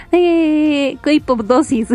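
choked up mid-sentence; words squeezed out while choking. Real, not acted. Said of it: "me ahogué".

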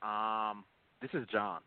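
talking through a face mask; muffled, mask on. Real, not acted. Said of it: "Forgive me, I had a mask".

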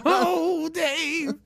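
high, breathy swoon. Pretend. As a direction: melt at the name. Reacting to grandpa joke.

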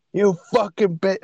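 high, slow, spat-out insult; angry outburst. Retold or imitated. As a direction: snap it out like a sudden attack. Retold sudden outburst at dinner.

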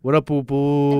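slow, flirty what up boo; flirty drawn-out greeting. Shown as a demonstration. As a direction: stretch it out sweetly, teasing. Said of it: "And you say it like that".

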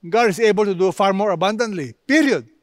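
fast, throwaway version of the verse; brisk, stopping short. Shown as a demonstration. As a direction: rattle it off as if it ended there. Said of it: "The writer could have stopped".

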